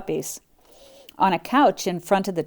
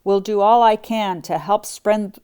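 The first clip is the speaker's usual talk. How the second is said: howling; 2 semitones higher, 3 dB louder than usual. Acted. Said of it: "howled a Great Dane".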